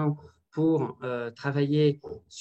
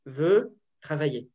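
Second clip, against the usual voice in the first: slow, deliberate; slower than usual. Shown as a demonstration. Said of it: "ça va faire je".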